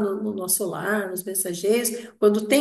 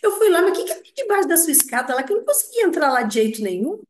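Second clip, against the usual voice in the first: retold friend's question; 6 semitones higher, 3 dB louder, faster than usual. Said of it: "Aí eu falei assim".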